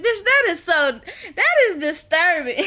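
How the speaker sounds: high, emphatic appalled reaction; comic scandalised outburst; mock shock. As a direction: exclaim in amused disgust. Mock outburst at kissing scene.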